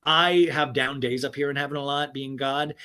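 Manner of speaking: lightly voiced God. God confessing he is a fan, lightly voiced. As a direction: play God with only a slight put-on voice. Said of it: "this is my God voice".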